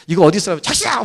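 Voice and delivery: mock-snap at a coworker. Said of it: "어떤 사람은 막 짜증도 나고". (짜증 내며 쏘아붙이는 흉내)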